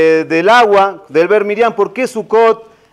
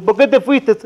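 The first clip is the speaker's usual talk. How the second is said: high, hammed-up lament; mock crying; 4 semitones higher than usual. Mourner cries at the grave again, mock wailing. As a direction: cry out in exaggerated grief, pitched up. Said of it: "que estaba llorando".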